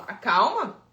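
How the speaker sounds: sceptical retort. Real, not acted. Scoffing at the parent's excuse.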